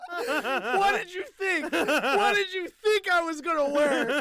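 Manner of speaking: high, laughing fake British voice; mock British accent. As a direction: keep the silly London accent going. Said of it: "talk like that the rest of the episode".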